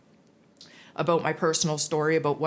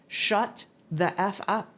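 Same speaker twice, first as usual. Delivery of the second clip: higher, slow, blunt command; blunt order; 4 semitones higher, slower than usual. Retold or imitated. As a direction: lay down the order flatly, no room to argue. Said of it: "they say".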